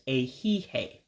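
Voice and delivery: "a he, hey" as ay-HEE-hay, no final I; silent final vowel. Shown as a demonstration. Teacher repeats afternoon word for learners, last vowel dropped. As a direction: say "a he, hey" ending cleanly on hay. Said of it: "You don't pronounce that last I".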